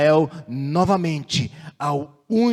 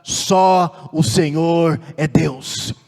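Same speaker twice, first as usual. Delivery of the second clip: slow, emphatic retold cry; imitating a crowd's acclamation; 4 dB louder, much slower than usual. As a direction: proclaim it slowly like a gathered people. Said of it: "clama e grita".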